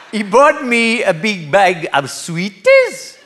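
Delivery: slow, high and giggly; giggling old lady. Acted. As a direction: laugh your way through it.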